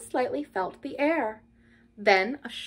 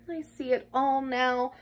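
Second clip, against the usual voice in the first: gloomy self-reproach; 6 semitones higher than usual. A narrator's reading. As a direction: berate yourself, rising to a drawn-out last phrase. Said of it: "After a time he muttered gloomily".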